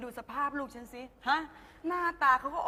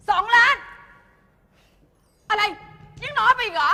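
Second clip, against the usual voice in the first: escalating bribe; 8 semitones higher, 11 dB louder than usual. Acted. Mother bidding up a bribe.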